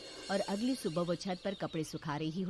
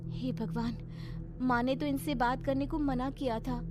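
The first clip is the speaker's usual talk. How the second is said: put-on higher, mildly alarmed young wife; worried; 6 semitones higher, 3 dB louder than usual. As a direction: fret to yourself, a little higher. Worried wife recalls a warning.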